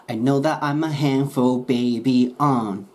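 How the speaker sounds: slow lyric demo. Shown as a demonstration. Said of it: "that I'mでくっつく".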